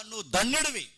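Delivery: high-pitched, emphatic praise. Acted. Jesus praising Peter two minutes earlier, praising. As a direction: lift the voice to praise him. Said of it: "అంతకుముందు ధన్యుడు అన్నాడు".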